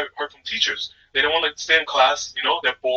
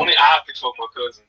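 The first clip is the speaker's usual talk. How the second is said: put-on Southern, Alabama-style accent; 3 semitones lower than usual. Shown as a demonstration. Repeating the cousin line for a co-host on request, Alabama accent. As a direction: do a joking Alabama accent, a bit cowboy. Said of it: "with the accent".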